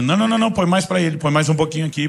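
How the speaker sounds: lightly acted complaining child, quick repeated no; child squabbling over shares. Children measuring soda in cups, mock childish protest.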